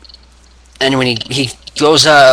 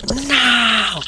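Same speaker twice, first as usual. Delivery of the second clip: high defiant cry; defiant shout; 12 semitones higher than usual. Retold or imitated. Austin fighting out of the hold, defiant shout. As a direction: roar back with everything. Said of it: "Austin is like".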